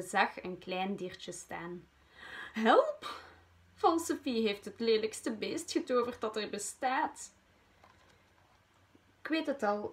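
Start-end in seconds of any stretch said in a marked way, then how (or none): 2.5-7.3 high startled shout of help; alarmed cry for help. Acted. Wormpa yelling to her friend in fright.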